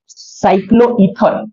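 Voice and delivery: stretched out at half speed; slow dictation. Real, not acted. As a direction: dictate the heading slowly, a little low. Dictating the next topic heading. (धीरे-धीरे खींचकर लिखवाते हुए)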